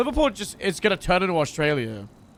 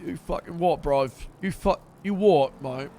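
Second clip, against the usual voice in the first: put-on British lad accent; practising British slang, mostly from the lips. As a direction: do a rough attempt at a British "bruv" accent. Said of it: "with the accent".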